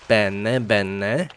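bene said the Italian way, bene, bene, lightly rising; a playful, amateur Italian accent on bene; Italian accent, badly faked. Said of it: "I'm sorry for the accent".

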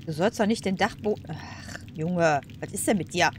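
ordinary delivery

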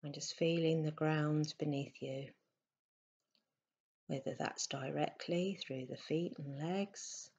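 softly spoken meditation guidance with long pauses; unhurried, slightly hushed meditation voice; guided meditation. Acted. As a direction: guide them gently into stillness, leaving space between phrases.

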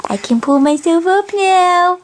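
voicing the baby. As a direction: speak for the baby in a little voice. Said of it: "Say hi".

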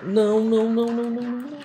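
high string of refusals, fading; panicked no-no-no. Real, not acted. Gamer about to take damage, high panic. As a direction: panic as the hit comes.

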